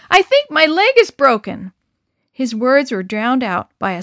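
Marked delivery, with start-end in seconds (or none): 0.1-1.7 loud, high pained cry; pained call. Acted. Del tells the boys his leg is broken, loud pained cry. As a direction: call out hurt and scared.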